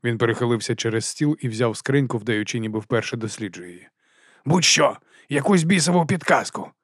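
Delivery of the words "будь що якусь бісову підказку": barked. Acted. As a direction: snap it at him. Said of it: "гаркнув Бернард".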